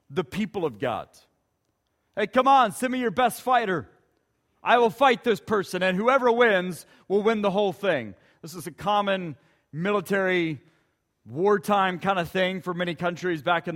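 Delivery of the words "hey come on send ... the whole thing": Goliath's taunt. Acted. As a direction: taunt the Israelites. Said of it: "he taunts and challenges".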